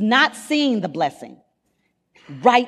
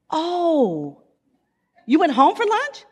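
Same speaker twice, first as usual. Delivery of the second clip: husband's voice; 8 semitones higher, slower than usual. Retold or imitated. Husband voiced in phone call.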